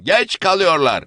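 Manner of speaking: geç hit hard at the peak. Acted. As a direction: push the repeat harder. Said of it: "diye bağırdı".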